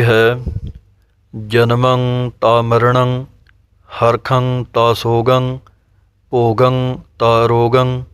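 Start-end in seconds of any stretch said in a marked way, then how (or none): 1.5-8.0 slow, measured sacred verse; slow scripture recitation. Shown as a demonstration. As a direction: intone each word deliberately.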